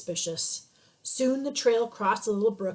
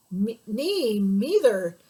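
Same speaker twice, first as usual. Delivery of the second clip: tiny little voice; 4 dB louder, much slower than usual. Acted. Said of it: "said a tiny little voice".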